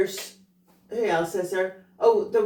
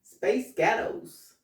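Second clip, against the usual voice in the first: slow, careful American-accent attempt; much slower than usual. Shown as a demonstration. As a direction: try an American accent, drawn out. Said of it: "you say space ghettos in an American".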